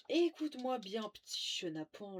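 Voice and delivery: playful menacing taunt; mock threat. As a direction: threaten a little rascal. Taunting a game character.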